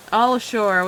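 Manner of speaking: loud all-ashore call; driver's loud call. Acted. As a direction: announce it down the bus. Driver calls passengers off.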